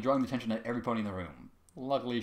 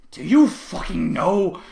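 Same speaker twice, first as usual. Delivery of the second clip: slow, loud, rising scream; screamed question; 7 semitones higher, 13 dB louder, much slower than usual. A narrator's reading. Trevor screams at Diamond Tiara, loud. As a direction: demand it at the top of your lungs. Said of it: "Trevor screamed".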